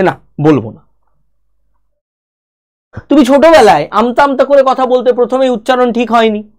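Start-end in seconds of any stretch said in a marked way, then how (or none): 0.0-0.9 shy refusal. Retold or imitated. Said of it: "আমরা অনেক সময় কি বলি যে".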